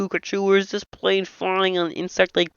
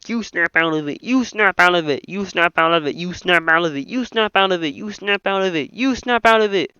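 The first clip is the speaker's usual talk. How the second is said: heated retort. Acted. Quarrelling pilots telling each other to snap out, heated. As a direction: throw it back over and over, building.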